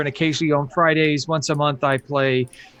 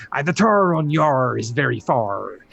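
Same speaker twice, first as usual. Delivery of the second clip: pirate voice on request; Merrick pirate voice. Acted. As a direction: ham up the pirate accent for chat. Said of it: "They want me to say something in Merrick's voice here".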